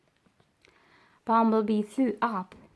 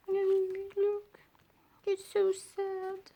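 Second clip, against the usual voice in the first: soft aside; 9 semitones higher, 3 dB quieter, much slower than usual. Real, not acted. Aside in another voice.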